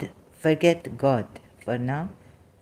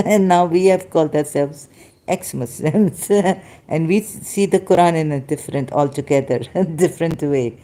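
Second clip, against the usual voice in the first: amused laughing. Real, not acted. Laughs while commenting on differing readings.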